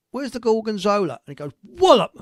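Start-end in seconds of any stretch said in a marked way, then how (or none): 0.1-1.2 lightly voiced worm, a bit higher; a hint of a demanding little worm; talking tapeworm. Tapeworm pops out asking after its cheese, lightly voiced. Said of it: "Then it says". 1.6-2.1 high, loud burst; punchline whack. Acted. Comic acting out a rolling pin blow, loud burst.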